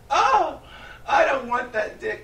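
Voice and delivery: very high, squealing, hammed-up prude; a fake-offended high squeal with a laugh; mock shocked woman. Host mimics the accuser as a high-pitched shocked prude. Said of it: "she said".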